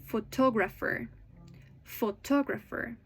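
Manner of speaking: phoTOGrapher, said twice for learners; "photographer" with a longer, clearer TOG; second-syllable stress. Shown as a demonstration. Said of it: "it's usually louder".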